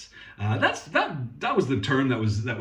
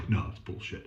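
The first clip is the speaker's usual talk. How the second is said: mocking a commenter; 7 semitones lower, 7 dB quieter than usual. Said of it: "You say".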